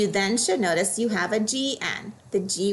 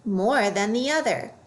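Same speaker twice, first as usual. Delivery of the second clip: more than the OTHER, weight on "other"; stress on other. Shown as a demonstration. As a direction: lean on "other", falling off it. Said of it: "Next one".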